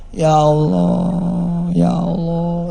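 slow, drawn-out prayerful plea; humble crouching prayer; calling on God. Retold or imitated. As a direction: stretch each word as a quiet plea to God. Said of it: "dia teriak Allah saja".

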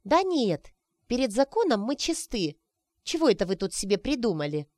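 a pouting dismissal; frowning retort. Acted. Sonechka frowning at Grishka's suspicion, indignant. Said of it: "нахмурила лобик Сонечка".

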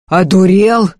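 a loud angry yell. A narrator's reading. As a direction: shout it at the son in fury. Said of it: "заорал Прокоп". (громкий злой крик)

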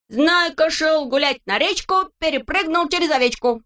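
high, sing-song poem reading; silly recitation. A narrator's reading. Neznaika recites his poem to the friends, sing-song.

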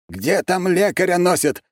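high, drawn-out exasperated call; impatient shout. A narrator's reading. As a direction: call out impatiently, stretching the words. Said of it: "нетерпеливо крикнул Бережной".

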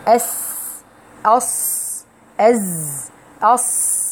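isolated أس أص أز sounds; tongue-tip أص without lip rounding; letter sounds demo. Shown as a demonstration. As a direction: hiss out أس then أص. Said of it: "مفروض تبقى ما بين الثنايا".

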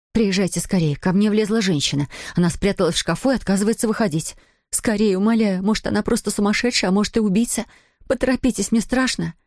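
high, pleading, a bit rushed; frightened woman begging for help; panicked plea. Acted. Terrified woman calls police.

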